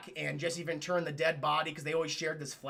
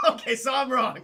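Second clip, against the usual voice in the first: loud, higher, through real laughter; laughing concession; 5 semitones higher, 7 dB louder than usual. Real, not acted. Streamer told by chat he misread it, laughing. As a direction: concede while cracking up. Laughing at own mistaken reading.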